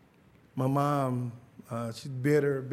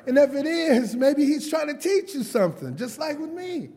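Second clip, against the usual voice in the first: preaching emphasis; 9 semitones higher, 5 dB louder than usual. Real, not acted. Preacher building to a point.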